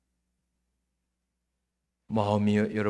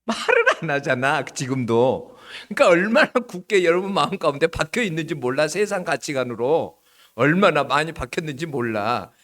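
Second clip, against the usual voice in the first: chiding; 3 semitones higher, 6 dB louder than usual. Real, not acted. Chiding silent congregation.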